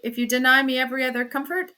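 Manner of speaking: fast, martyred complaint; exasperated plea. Acted. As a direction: rattle off the grievance crossly. Husband continues exasperated plea.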